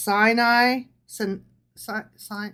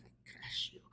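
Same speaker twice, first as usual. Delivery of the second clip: barbarian; 18 dB quieter than usual. Pretend. Menacing whisper, crushing heads.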